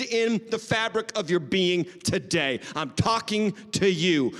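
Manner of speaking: slow, weighty preacher's declaration; emphatic preaching. Real, not acted. Preacher to congregation against the lie of insignificance, emphatic preaching. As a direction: hammer out each key word slowly.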